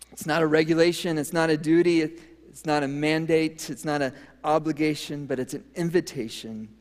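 loud, punchy denial from the pulpit; emphatic preaching. Real, not acted. Pastor insisting to his congregation, loud and emphatic. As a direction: hammer each "not" home. Preacher denying Sabbath is duty.

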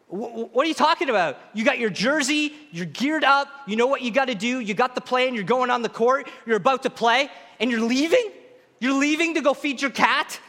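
lightly voiced coach pleading in disbelief; mild exasperated coach; disbelieving coach.

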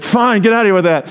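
mock fed-up dismissal; exasperated parent. Parent giving up on fake apology.

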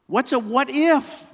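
puzzled question. Acted. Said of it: "asked Bruce".

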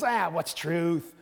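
slow, shrugging brush-off; scoffing what's truth; dismissive. Shown as a demonstration. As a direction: wave it away. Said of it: "we don't know if it's".

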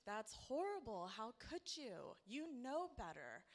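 lightly acted disapproval, swooping pitch; mock scolding. Church folk judging the pregnant pastor's kid, mock scolding.

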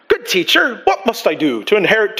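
put-on a light, unsure British accent; half-hearted British accent; attempted British accent. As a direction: read it with a touch of British. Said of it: "probably not British accent, sorry".

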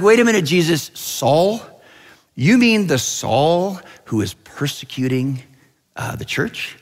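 acted incredulous questioning; a touch of baffled protest; mild disbelief. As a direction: check you really heard that name right. Angels question Jesus's surprising choice.

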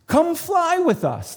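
very high, slow inviting goose voice; friendly geese. Acted. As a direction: call it sweetly like a goose. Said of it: "they said".

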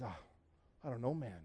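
very soft, subdued reply; dazed friend. Retold or imitated. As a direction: answer quietly, imitating someone still dazed. Dazed friend answers, retold.

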